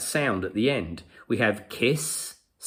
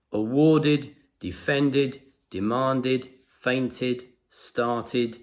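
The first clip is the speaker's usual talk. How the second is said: "Awarded, defended, demanded, fainted, started" with the final "id" left unstressed; unemphasized id ending; much slower than usual. Shown as a demonstration. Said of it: "I'm trying not to emphasize that sound now".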